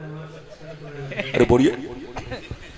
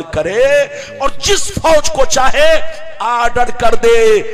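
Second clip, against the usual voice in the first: loud, rising sermon cadence; a preacher roaring God's power to the crowd; fiery preaching; 3 dB louder than usual. Acted. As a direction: drive it home to the congregation. Preaching at full force.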